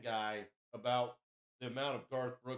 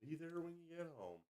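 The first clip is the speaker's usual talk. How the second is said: soft sultry quote; 4 semitones higher, 11 dB quieter than usual. Retold or imitated. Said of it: "It's like".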